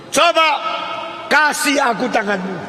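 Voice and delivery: high, forceful acted command; loud, dramatic rescue; urgent rescuer's call. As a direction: call down and heave him up. Acts the rescuer pulling him out.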